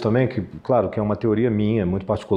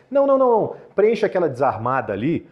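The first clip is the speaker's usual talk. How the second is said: mock mouth-open filler; 4 semitones higher than usual. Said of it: "fala assim".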